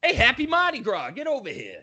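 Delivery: high silly mock Scorpion; goofy game-villain bark. Joking Scorpion Mardi Gras riff.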